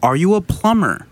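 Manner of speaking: slow, spelled-out questions, rising at the last; slow mock interrogation; exasperated questioning. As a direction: space out each option for someone clueless. Retold interrogation, spelled out slowly.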